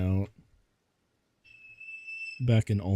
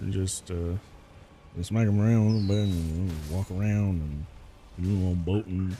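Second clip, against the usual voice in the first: southern drawl; 2 semitones lower than usual. Retold or imitated. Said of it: "talk like Boomhauer".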